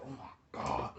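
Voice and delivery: low, soft stunned reaction; hushed dread. Retold or imitated. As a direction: drop it down under your breath. Everybody's stunned reaction, acted.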